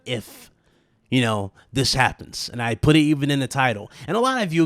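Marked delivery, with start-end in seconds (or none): 0.1-0.5 "if" held out with emphasis; pointed emphasis on "if"; stress on "if". Real, not acted. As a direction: land deliberately on the word "if". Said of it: "I put a big emphasis".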